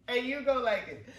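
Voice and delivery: high, laughing playful order; laughing insistence. Real, not acted. Vlogger ordering viewers to like it, laughing. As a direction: break into laughter while insisting.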